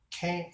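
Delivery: "cane" with a short-a vowel, like "kang"; "cane" rhyming with "hang"; first pronunciation of cane. Shown as a demonstration. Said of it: "is it cane or cane".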